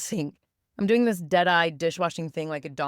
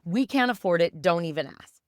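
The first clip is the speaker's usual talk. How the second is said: blurted; 4 dB louder than usual. Retold or imitated. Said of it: "my brain blurts out".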